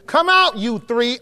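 put-on a stern father calling three children out; commanding call. Shown as a demonstration. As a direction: call them out sharply like a father. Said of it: "you need to read it like that".

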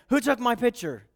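playful hint of a puzzled star asking the press; celebrity on red carpet. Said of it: "turning to a group of reporters and saying".

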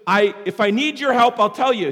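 lightly acted exasperation at being offered help; irritated customer. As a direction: act out a customer losing patience a little. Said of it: "This woman was irritated by this butcher".

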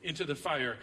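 measured, declaiming scripture reading. Acted. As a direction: read the verses out like a preacher.

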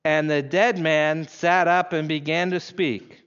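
careful, measured verse reading; slow deliberate reading. Shown as a demonstration. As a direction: read it slowly with weight on "dead". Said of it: "Let's try it again slowly".

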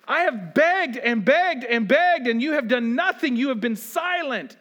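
a mild anguished plea; honest crying out. Retold or imitated. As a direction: beg God for an answer. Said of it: "this honest crying out".

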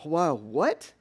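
loud, high, astonished outburst; a reader blurting out total disbelief; baffled reader. Pretend. Reader protesting to Paul, loud and astonished. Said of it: "you're supposed to go".

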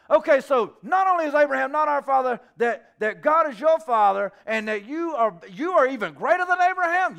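loud, high, mounting disbelief; mock-indignant questioning; incredulous recap. Acted incredulous recap by opponents.

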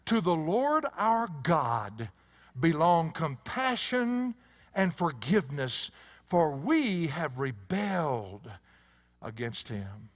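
slow, drawn-out, weighty Bible reading; scripture declaimed. Acted. Preacher reads Daniel's confession to the congregation, slowly declaimed. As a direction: declaim the verse slowly, stretching key words.

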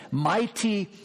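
put-on a light Argentine Spanish accent, slowed; hint of a thick Argentine accent on mighty power. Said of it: "That's how he would say it".

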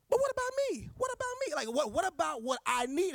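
high, loud mock whine; whiny complaint. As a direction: squeal it like a spoiled child. Mocking self-centred prayer.

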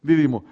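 "Didimo" stressed on the first syllable, DI-di-mo; corrected stress. Shown as a demonstration. Preacher repeating the corrected name, "Didimo" with first-syllable stress. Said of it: "sí tiene acento en la I".

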